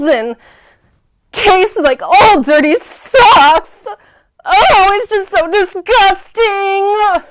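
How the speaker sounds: put-on disgusted valley girl; whiny valley girl complaining.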